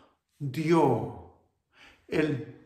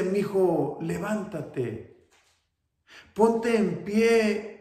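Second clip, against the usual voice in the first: high, loud call to her son, slowing at the end; mother calling out; 7 semitones higher, 8 dB louder, slower than usual. Acted. Mother calls her son in the wheelchair to stand up, loud and high. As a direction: lift him up with a ringing call.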